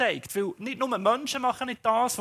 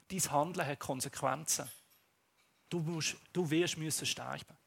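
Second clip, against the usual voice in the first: softer, lower solemn judgment; grave prophet; 3 semitones lower, 4 dB quieter than usual. Acted. Prophet warning the king of consequences. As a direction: pronounce doom quietly.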